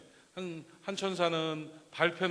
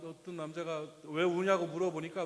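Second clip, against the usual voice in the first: usual speaking voice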